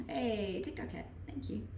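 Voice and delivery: usual speaking voice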